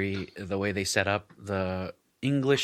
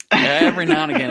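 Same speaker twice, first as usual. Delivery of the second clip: Appalachian accent; 9 dB louder, faster than usual. Shown as a demonstration. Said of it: "my Appalachian accent come through".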